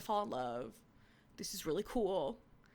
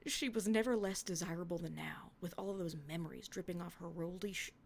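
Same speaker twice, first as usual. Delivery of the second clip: put-on hushed dramatic reading of old writing; story reading. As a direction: read it like a tender romance. Reading her old fanfic aloud.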